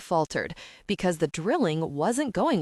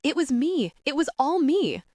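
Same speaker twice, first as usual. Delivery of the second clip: screamed confession; 8 semitones higher than usual. A narrator's reading. Wilhelmina confessing to Julie's dad, a high desperate scream. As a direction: blurt it out like she's being tortured. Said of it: "she screamed like a subject under torture".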